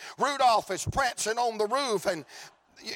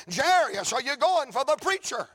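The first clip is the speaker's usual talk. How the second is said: calling bystander; 4 semitones higher than usual. Acted.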